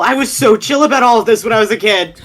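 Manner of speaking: laughing disbelief. Acted. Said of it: "he's just like".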